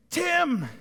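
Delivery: high, drawn-out name calls; delighted high-pitched call. Acted. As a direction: call each name as if greeting them. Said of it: "He yells our name".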